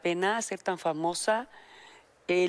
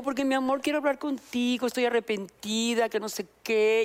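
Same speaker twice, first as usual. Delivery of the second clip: mock sweet voice; 3 semitones higher than usual. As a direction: coo it with a giggle. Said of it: "Y yo". (voz melosa y aguda, riendo)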